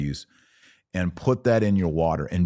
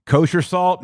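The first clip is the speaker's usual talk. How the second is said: much higher and louder, mocking disbelief; incredulous scoff; 11 semitones higher, 6 dB louder than usual. Real, not acted. Reacting to a viewer's kosher salt idea, scoffing disbelief. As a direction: toss the idea back in disbelief.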